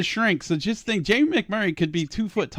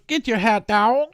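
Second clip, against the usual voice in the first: put-on old-time hot dog seller; 4 semitones higher than usual. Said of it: "nineteen forty Yankees hot dog seller".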